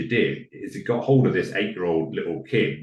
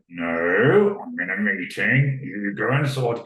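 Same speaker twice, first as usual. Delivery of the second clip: louder, drawn-out exasperated refusal; frustrated head teacher; 5 dB louder, slower than usual. Acted. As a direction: act out a head teacher losing patience. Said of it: "the head was getting frustrated".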